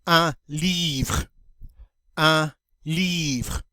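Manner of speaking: "Un livre" ending on the r with no final e; teacher modeling "Un livre", silent e; model French word. Shown as a demonstration. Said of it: "I'm going to say, um, the word in French".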